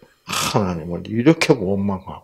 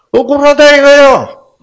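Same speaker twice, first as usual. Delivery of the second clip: very loud, high-pitched protest; indignant outcry; 10 dB louder than usual. Acted. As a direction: cry out at the injustice of it. 가인의 억울한 항변을 대신 외침. (억울해서 크게 높이 외치는 항변)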